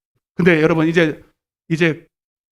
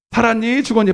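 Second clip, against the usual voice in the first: lightly mimicked kids' taunt, raised pitch; kids' slang; 5 semitones higher than usual. Shown as a demonstration. Preacher showing the congregation how to ask each other, kids' slang. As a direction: toss it out like kids' slang, a touch sing-song. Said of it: "애들 속된 말로".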